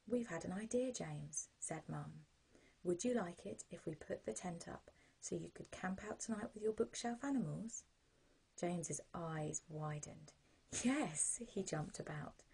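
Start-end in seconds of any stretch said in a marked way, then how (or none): 0.1-7.8 mum's voice. Acted. Mum voiced in story. 10.8-11.4 put-on excited child. Excited child voiced in story.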